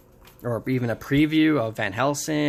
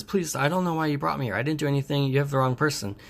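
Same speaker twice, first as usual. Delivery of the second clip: quick, higher-pitched protest; mock pleading; 3 semitones higher, faster than usual. Captive insisting he did nothing, mock pleading. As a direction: beg in a hurry, lightly acted.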